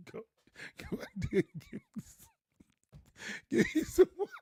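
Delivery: squeaky high mock folk voice; Rockingham old-timer. Preacher mocking hometown folks, high and squeaky. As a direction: impersonate the hometown way of asking, fast. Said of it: "that's how we used to say it in Rockingham".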